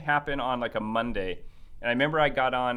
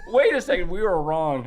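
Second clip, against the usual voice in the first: higher and louder mock panic; mock alarm; 5 semitones higher, 7 dB louder than usual. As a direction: play the company suddenly panicking. Mock company calling back.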